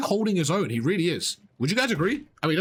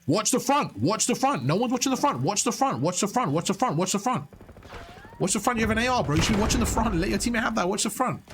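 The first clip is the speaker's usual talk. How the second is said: higher, urgent yelling at a teammate; yelling callouts; 5 semitones higher than usual. Real, not acted. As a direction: bark the callout over and over. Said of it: "I was yelling at you".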